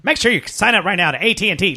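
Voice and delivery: Big Al ad voice. Retold or imitated. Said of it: "that voice would be a good".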